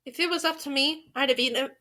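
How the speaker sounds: soft, tentative line attempt; cautious retry. Real, not acted. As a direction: test the line quietly to yourself.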